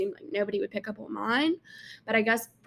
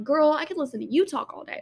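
higher pitch, leaning on "you"; stress on YOU; 6 semitones higher, 3 dB louder than usual. Retold or imitated. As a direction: throw the compliment back, "you" lifted high. Retold compliment turned back on caller.

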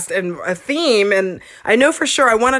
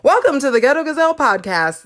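host intro voice; 5 semitones higher than usual. Shown as a demonstration. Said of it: "how do I start?".

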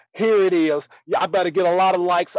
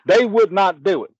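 hollered country showman's proclamation, raised pitch; loud triumphant announcing; 4 semitones higher, 5 dB louder than usual. Acted. Willie kicked off the show, now back on air, loud crowing. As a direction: announce your takeover at full voice.

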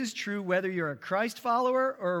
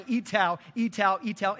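retold shouting; 3 semitones higher, 4 dB louder than usual.

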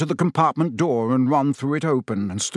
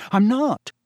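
earnest, higher-pitched denial; sincere young protest; 10 semitones higher, 3 dB louder than usual. A narrator's reading. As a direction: insist on it sincerely, pitch lifted. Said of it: "said Harry sincerely".

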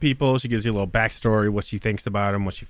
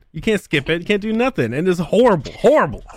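annoyed rant; 7 semitones higher than usual. Real, not acted. Ranting about the game music.

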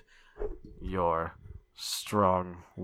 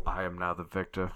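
serial killer voice; 3 semitones lower than usual. Acted. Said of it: "I will not do that voice again".

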